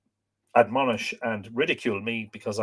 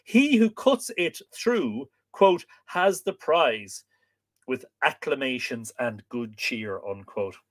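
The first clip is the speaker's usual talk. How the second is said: measured, deliberate reading voice; book reading aloud; 2 semitones higher, slower than usual. A narrator's reading. Reading an old book of customs to listeners, measured narration. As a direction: read it out with lifted phrase openings, settling at the ends.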